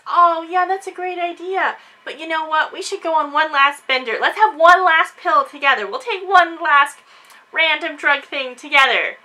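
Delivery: sugar-coat it like a fake friend; sweetly. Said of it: "Emily sweetly says".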